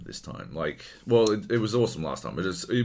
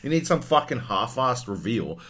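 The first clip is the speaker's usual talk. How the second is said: usual speaking voice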